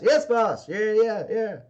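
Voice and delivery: eager, scared underlings nodding along; nervous henchmen. Acted. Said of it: "And they're all like".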